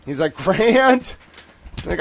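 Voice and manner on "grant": high exasperated yell; imitated yelling. Editor scolds streamer about reach, imitated yelling. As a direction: mimic an editor yelling the name. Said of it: "he starts yelling".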